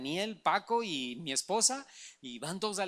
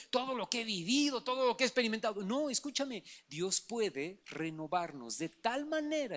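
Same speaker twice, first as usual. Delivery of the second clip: preaching. Acted. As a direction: preach it, stretching each phrase. Predicación sostenida. (predicación enfática y pausada)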